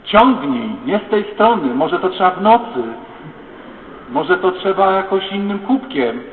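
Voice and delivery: hammed-up rowdy crowd shouting; mock drunken shouting. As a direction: yell like drinkers fighting over the well.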